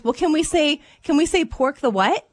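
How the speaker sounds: put-on a kid finding the loophole; sly little girl. Mom voicing her daughter asking to say "pork the what".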